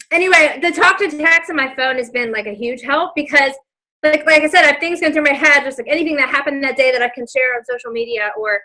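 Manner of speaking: breathless after running up stairs; out of breath, talking through it. Real, not acted. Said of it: "I'm out of breath now 'cause I was running up the stairs".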